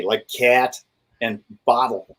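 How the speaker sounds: "cat" and "bottle" with a flat Western New York A. Shown as a demonstration. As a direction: flatten the vowel in "cat" and "bottle". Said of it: "the flat A".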